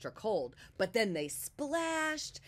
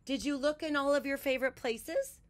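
rabbit voice; 7 semitones higher, 4 dB louder than usual. A narrator's reading. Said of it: "said Rabbit".

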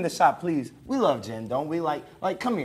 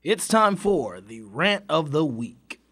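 slow announcer voice; 2 semitones lower, much slower than usual. Acted. Rant segment announcer intro.

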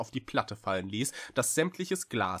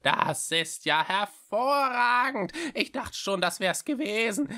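relieved; 12 semitones higher, 5 dB louder than usual. A narrator's reading. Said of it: "sagte die Schreckse erleichtert".

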